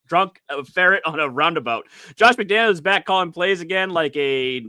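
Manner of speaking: halting, badly faked Scottish read; Scottish accent that keeps slipping. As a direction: stumble through a script in a shaky attempt at Scottish. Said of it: "I can't do Scottish".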